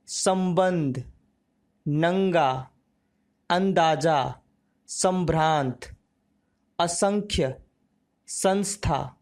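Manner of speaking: each word said slowly and separately, nasal consonant clear; teacher reading anusvara words aloud for the class; anusvara word drill. Shown as a demonstration. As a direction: read the list word by word with pauses, like a class drill. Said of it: "अनुस्वार शब्दों का उच्चारण करते हैं".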